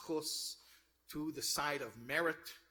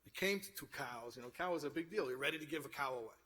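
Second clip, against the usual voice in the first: mildly exasperated retold quote, building in pitch toward the end; lightly acted frustration, climbing as it goes; flustered; 2 semitones higher, faster than usual. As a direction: imitate a flustered questioner, mildly frustrated and getting quicker. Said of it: "He's getting flustered".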